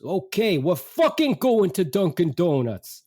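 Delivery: high, slow, imitated angry dad; exasperated dad. Dad giving in to mother's Dunkin' Donuts pleas, exasperated. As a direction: act out a father giving in loudly, fed up. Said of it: "My dad goes".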